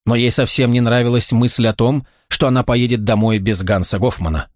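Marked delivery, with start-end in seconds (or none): none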